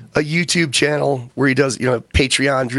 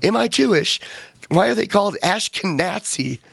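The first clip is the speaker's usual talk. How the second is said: mock shocked discovery; 5 semitones higher than usual. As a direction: act out a shocked realization. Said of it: "and he's like".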